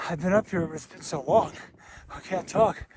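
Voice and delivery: talking through numb, frozen lips; words slurred by cold lips. Real, not acted. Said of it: "my lips are frozen".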